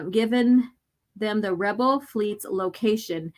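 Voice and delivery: slow, cold command. Acted. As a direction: dictate the orders slowly and coldly. The brainwashing voice in his head.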